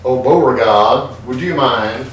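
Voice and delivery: slow, thick Southern belle drawl; hammed-up Southern drawl calling the servant. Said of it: "you're required to speak in a thick, in a thick southern drawl like this".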